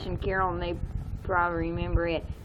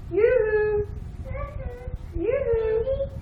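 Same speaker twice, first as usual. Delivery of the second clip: high yoo-hoo calling out; much slower than usual. Shown as a demonstration. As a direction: holler yoo-hoo as if far away. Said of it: "Julie can't yoo-hoo".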